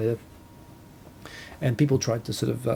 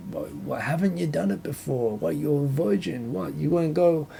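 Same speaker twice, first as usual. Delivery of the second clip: put-on Long Island accent; 4 semitones higher than usual. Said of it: "I suddenly have a Long Island accent".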